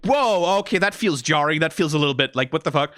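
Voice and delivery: retold surprise. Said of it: "I was like".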